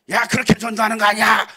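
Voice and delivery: a hint of a know-it-all rebuke; mock scolding. A stranger scolding the church member about evangelism, mock scolding.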